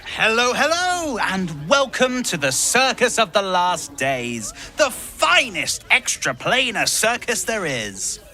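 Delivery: circus barker. Acted. Ringmaster welcoming passersby, showman shout.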